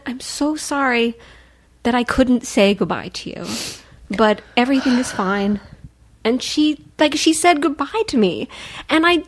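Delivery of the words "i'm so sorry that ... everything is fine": gentle. Retold or imitated.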